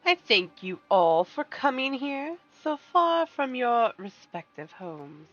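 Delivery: slow, courteous villain voice; silky polite villain. Acted. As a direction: welcome the guests like a gracious schemer. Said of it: "Get your best villain voice ready".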